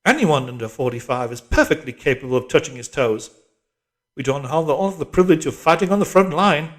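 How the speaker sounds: loud, preachy pep talk; rally the squad with patriotic fervour; rousing drill instructress. A narrator's reading.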